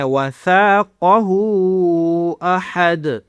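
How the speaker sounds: وَثَاقَهُ with a full emphatic ق; heavy qaf. Shown as a demonstration. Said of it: "قاف کو موٹا کرنا ہے".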